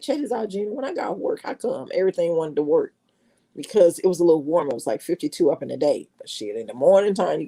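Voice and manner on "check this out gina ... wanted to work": mock puzzled son. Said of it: "he was like".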